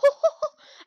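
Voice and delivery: short, high, loud laughing hoot; a sudden high "ooh-hoo"; startled hoot. Real, not acted. Reacting to the match.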